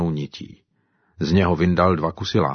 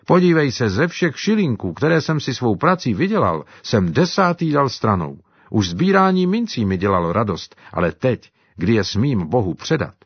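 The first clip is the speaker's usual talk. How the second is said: lightly voiced African servant, joyful; a touch higher, glad and earnest; Simba's voice; 4 semitones higher than usual. Simba explains his tithe. (lehce odlišený hlas Simby, radostný)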